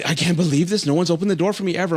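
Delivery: a date overwhelmed by a held door; imitating amazed date. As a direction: gush like it's never happened before. Retold date amazed by gesture.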